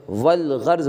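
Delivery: "والغرض" said wal-gharz; silent alif, sounded lam. Shown as a demonstration. Teacher modelling the word, "والغرض" as wal-gharz. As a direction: join wa to a clear L in "والغرض". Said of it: "بولیں گے".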